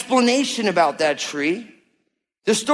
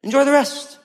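lightly voiced God, gently insisting; a hint of a generous father reassuring; voicing God; 6 semitones higher, faster than usual. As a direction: pastor voicing God pleading with people to enjoy life. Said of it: "But God's like".

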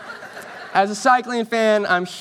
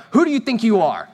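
higher-pitched mock affront; indignant challenge; 4 semitones higher, 3 dB louder than usual. Jewish leaders confront Jesus in the temple, indignant challenge. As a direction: put the upstart in his place. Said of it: "they go".

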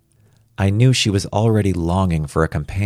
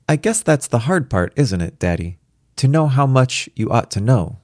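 put-on higher child's voice, musing; thoughtful little girl; 6 semitones higher than usual. A narrator's reading. Little girl checking with Daddy, higher and thoughtful. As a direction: puzzle it out as a small daughter. Reads the daughter's dialogue.

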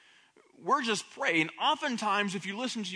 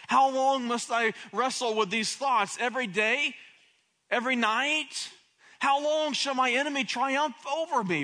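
pleading cry; 4 semitones higher, 3 dB louder than usual. Acted. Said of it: "crying out".

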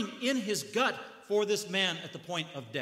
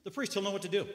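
mock hopeful audience; 5 semitones higher than usual. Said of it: "what the audience was thinking".

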